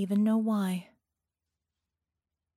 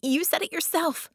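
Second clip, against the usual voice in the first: hissed; 9 semitones higher than usual. A narrator's reading. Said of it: "Vicky hissed".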